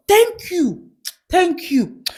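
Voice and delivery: high-pitched imitation of a mom; put-on high mom voice; protective mother. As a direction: thank the informant as a mock mother. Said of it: "So she's like".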